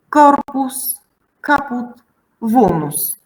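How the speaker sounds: "Corpus, caput, vulnus", each hit on its first syllable; first-syllable stress. Shown as a demonstration. Teacher showing two-syllable Latin words, first-syllable stress. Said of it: "in words of two syllables, it's easy".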